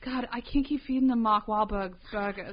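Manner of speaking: put-on New England wife complaining; mock New England accent. Continues the wife bit.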